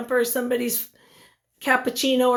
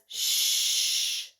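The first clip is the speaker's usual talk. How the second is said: a soft whispered shush; a librarian's quick whispered shush; 6 dB quieter than usual. Acted. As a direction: hush them like a librarian. Library shushing quoted in story.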